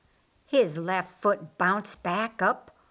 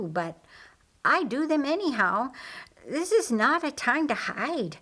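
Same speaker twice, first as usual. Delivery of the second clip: raised, insistent voice, lightly acted; urgent pleading; 5 semitones higher than usual. Pleading with Mary not to hide, lightly raised voice. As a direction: push back with rising urgency. Narrator voices emotional dialogue.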